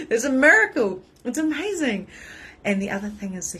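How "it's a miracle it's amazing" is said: high, loud laughing exclaim; delighted laughter. Real, not acted. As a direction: laugh through the wonder. Laughing about birth.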